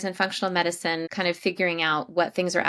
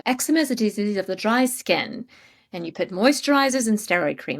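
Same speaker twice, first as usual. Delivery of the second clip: loosely imitated British accent, pitched up; not-very-good British accent, higher than usual; attempted British accent; 5 semitones higher, 5 dB louder than usual. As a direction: mimic a British specialist lecturing, imperfectly. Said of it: "he had a British accent".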